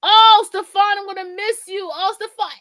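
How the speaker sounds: imitating a dramatic goodbye cry; mock crying. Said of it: "this bitch was over here crying".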